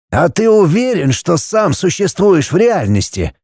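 a hint of a wise old guide, asking gently; old Kofler's voice. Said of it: "раздался вопросительный голос Кофлера".

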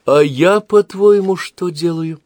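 loud, high mocking retort; wife mocking husband in quarrel. A narrator's reading. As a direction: needle him with scorn. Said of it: "насмешливо спросила она".

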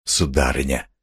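reassuring official; soothing. A narrator's reading. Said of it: "начал было чиновник".

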